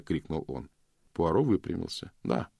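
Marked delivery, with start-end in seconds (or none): 2.2-2.5 calm. A narrator's reading. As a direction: confirm it evenly and calmly. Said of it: "спокойно подтвердил он". (спокойно)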